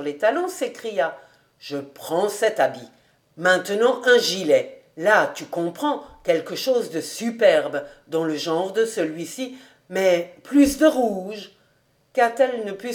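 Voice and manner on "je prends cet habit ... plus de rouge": a hint of Kobus choosing with relish; lightly voiced master, decided.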